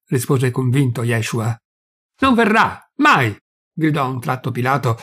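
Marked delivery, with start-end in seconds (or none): 2.2-3.3 sudden shout, high and loud; a voice so terrible the prisoner staggers. A narrator's reading. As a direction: bellow it out in sudden rage. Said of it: "con voce così terribile".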